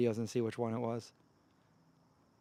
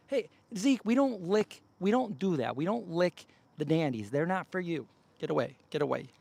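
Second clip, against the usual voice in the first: scolding the dog; 4 semitones higher than usual. Real, not acted.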